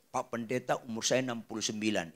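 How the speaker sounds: lightly voiced older person, low and soft; older congregant. Sixty-nine-year-old asking the pastor for prayer, subdued.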